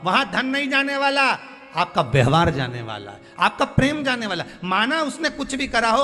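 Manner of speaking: high-pitched, urgent sermon appeal; impassioned preaching. Real, not acted. Preacher pleads with feuding brothers and sisters, impassioned. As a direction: preach it high, piling up each example.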